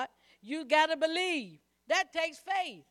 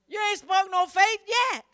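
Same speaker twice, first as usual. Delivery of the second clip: loud, higher rebuke; preaching shout; 6 semitones higher, 8 dB louder than usual. Real, not acted. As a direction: shout it at the congregation. Preacher answers mock prayer.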